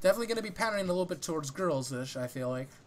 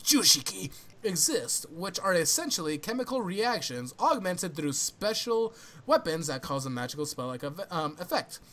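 hammed-up flamboyant summary reading. Reading spell lore to friends, mock flamboyant. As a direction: read it out with theatrical flourish. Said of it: "flamboyant voice".

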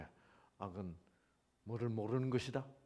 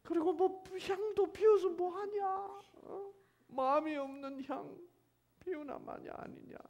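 high-pitched pleading complaint; coaxing reproach. Shown as a demonstration. Preacher voices God questioning empty incense, high coaxing reproach. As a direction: gently scold in a high voice. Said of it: "이런 식으로 읽어야지".

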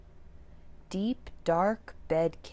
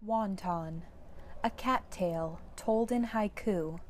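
storybook reading. A narrator's reading. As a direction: read each haiku to the kids with little pauses. Reads the haiku book aloud.

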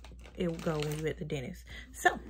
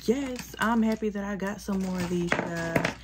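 excited; 6 dB louder than usual. Real, not acted. Happy to get favorite wipes.

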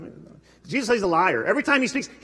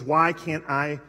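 pleading lament; 5 semitones lower, slower than usual. Pretend. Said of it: "he says".

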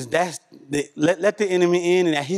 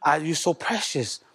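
soft, hushed and tender; tender to son; 2 semitones lower, 6 dB quieter than usual. Retold or imitated. Father speaking softly to his precious son, tender and hushed. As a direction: murmur it like you're looking at your sleeping boy. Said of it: "I'm like".

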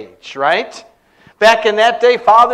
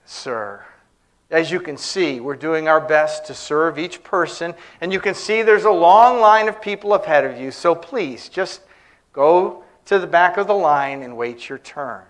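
very calm; 3 semitones lower than usual. Retold or imitated. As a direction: explain it calmly and politely. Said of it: "ticket agent very calmly said".

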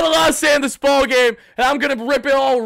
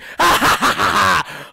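gloating laugh; 4 semitones lower than usual. Real, not acted. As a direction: cackle over the beaten rivals. Gloating after sending rivals home.

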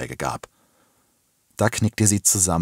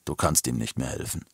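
low, hushed statement; softly spoken; 4 semitones lower, 8 dB quieter than usual. A narrator's reading. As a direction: say it quietly, pitched down. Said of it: "sagte der Bärtige leise". (leise und tief gesagt)

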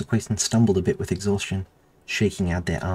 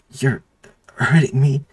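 high loud strained plea; pained cry; 7 semitones higher, 8 dB louder than usual. A narrator's reading. Slammed into the dirt, pleading with the doctor, pained high cry. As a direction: force it out in pain. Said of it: "Athena grunted".

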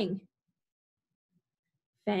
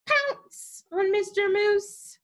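high, slow pounce on the words; spring on the moose, playful and high; 11 semitones higher, slower than usual. Acted. Teacher acting out the dog's pounce for kids.

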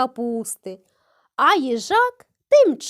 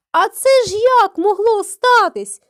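higher and louder in disbelief; astonished cry; 5 semitones higher, 5 dB louder than usual. A narrator's reading. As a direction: cry out, baffled. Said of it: "скрикнув заєць".

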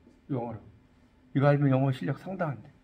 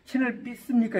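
mock pastor; 5 semitones higher than usual. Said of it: "교회 가면 목사님들이".

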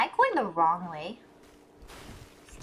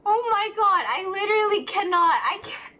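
half laughing, can't cope; laughing disbelief; 10 semitones higher than usual. Real, not acted. Laughing at friend's teasing.

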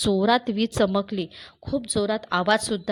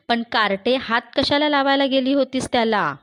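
higher and louder scolding; grandmother scolding; 4 semitones higher, 4 dB louder than usual. Acted. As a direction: tell the girl off, rising at the end. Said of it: "आजी सांगते".

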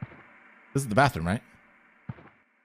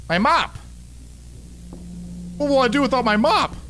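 mock wail; 10 semitones higher than usual. Mock despair over lost mop.

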